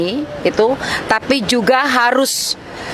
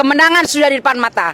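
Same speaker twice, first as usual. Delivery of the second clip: fiery rally speech; 3 semitones higher, faster than usual. Real, not acted. Rallying workers.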